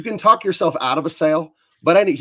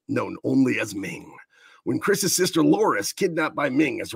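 movie trailer voice. Pretend. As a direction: sell it like a blockbuster trailer. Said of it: "So here we go with movie trailer voice".

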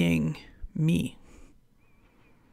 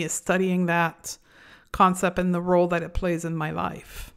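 normal talking voice

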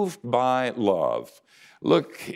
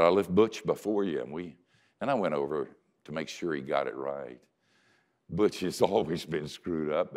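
prayer; 3 semitones lower than usual. Retold or imitated. Prays a goodbye prayer by phone.

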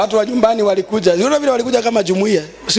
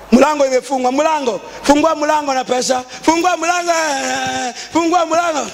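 higher, repeated mock calling; imitated door demand; 4 semitones higher than usual. Wedding crowd demanding money to open the door, lightly imitated. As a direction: call out lightly as those holding the door.

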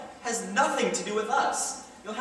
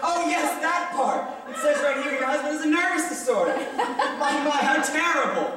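mock sympathy; 3 semitones higher than usual.

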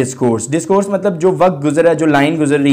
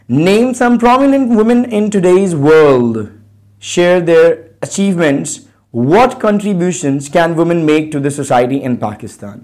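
very slow, deliberate classroom read; teacher reading questions word by word; slow reading aloud; much slower than usual. Shown as a demonstration. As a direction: spell out each question for students. Reads textbook questions slowly.

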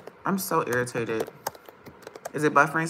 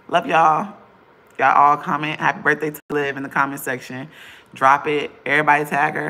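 loud rallying; 5 dB louder than usual. Real, not acted. Rallying viewers to comment.

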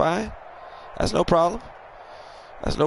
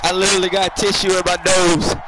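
laughing; 3 semitones higher than usual. Real, not acted. Laughs about tissue in nose.

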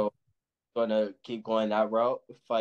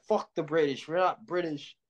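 higher-pitched imitation of Irish indignation; mock British-hating indignation; 5 semitones higher than usual. Boxer imitating Irish guys who hate the British, mock indignant. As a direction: protest it in a raised voice, playing someone else. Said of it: "the ones that really hate the British".

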